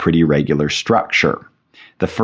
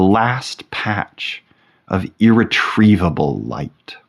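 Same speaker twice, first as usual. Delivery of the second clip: poem reading. Acted. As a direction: linger over the lines, drawing out the final phrases. Reads a sonnet aloud.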